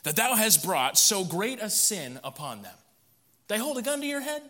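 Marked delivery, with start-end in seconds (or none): 0.0-2.8 a hint of a stern Moses, slow and higher; lightly voiced Moses, slow and searching; Moses questioning Aaron. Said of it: "Moses said unto Aaron".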